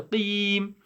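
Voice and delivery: "Qim" held on a long ee; smiling long vowel. Shown as a demonstration. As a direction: say "Qim" through a smile, as "qeem".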